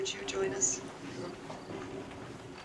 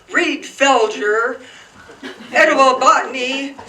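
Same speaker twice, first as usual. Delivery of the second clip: emphatic curt order; 4 semitones higher, 7 dB louder than usual. Retold or imitated. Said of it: "he would just say".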